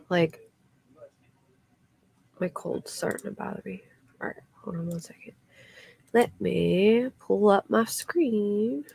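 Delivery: stuffy voice after nose spray; sniffly, like you just used nasal spray. Real, not acted. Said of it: "I wanted to use my nose spray".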